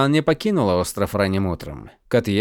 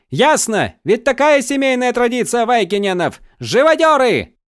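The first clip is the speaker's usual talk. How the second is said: much higher and louder, spitting the insult; defiant yell; 12 semitones higher, 4 dB louder than usual. Acted. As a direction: hurl it back at him. Bound prisoner yells back.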